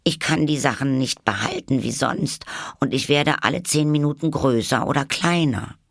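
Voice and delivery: high figure voice, a touch anxious; timid Alice. A narrator's reading. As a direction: admit it in a high voice. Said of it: "sagte Alice". (hohe, leicht bange Alice-Stimme)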